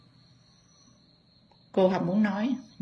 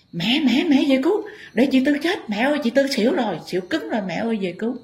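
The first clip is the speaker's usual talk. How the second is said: panicked plea; 7 semitones higher than usual. Retold or imitated. Relative begging the Mother spirit to save chị Tư, high and frantic. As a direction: beg the Mother to come save her.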